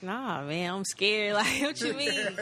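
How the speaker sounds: high-pitched retold balk, breaking into a laugh; mock-scared protest. Telling how a friend pushed them to make music, mock-scared. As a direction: play up being scared, half laughing.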